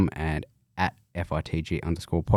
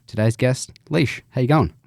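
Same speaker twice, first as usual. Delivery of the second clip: excited introduction; 6 semitones higher, 6 dB louder than usual. Acted. Host introducing guest.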